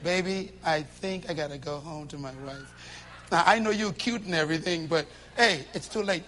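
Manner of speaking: soft sweet talk. Retold or imitated. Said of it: "Don't say".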